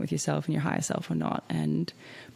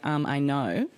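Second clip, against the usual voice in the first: dismissive; 2 semitones lower, slower than usual. Retold or imitated. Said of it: "in that tone".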